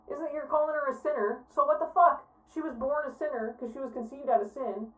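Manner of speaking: high, incredulous rant away from the mic; walk off and keep ranting, distant and high; ranting from afar. Real, not acted. Host walking away from the clip, distant incredulous outburst. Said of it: "I have to go take a walk".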